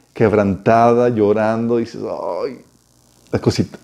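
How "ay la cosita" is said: soft, low mock cooing; melting tenderness. Husband seeing his wife broken and crying, mock tender melting. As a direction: imitate a man melting with pity. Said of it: "que derrite al hombre es ver a su mujer así".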